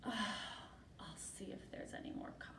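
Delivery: soft, unimpressed excuse; quiet reluctance. Acted. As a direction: mumble it softly after the outburst. Martina stalls the lizard.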